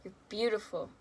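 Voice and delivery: loud, hammed-up pep talk; mock comforting tiktok. Imitating comforting TikToks to viewers, a loud hammed-up pep talk. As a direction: shout the self-care reminders like a cheerful coach.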